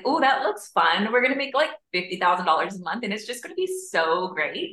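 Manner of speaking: a hint of a bratty teen, imitating; bratty teenager voice. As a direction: play your bratty teenager side, mocking. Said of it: "I say it with that accent".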